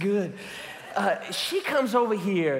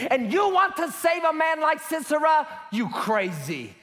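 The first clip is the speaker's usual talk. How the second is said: preaching; 3 semitones higher than usual. Acted. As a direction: thunder it from the pulpit. Preaching on Sisera's crimes.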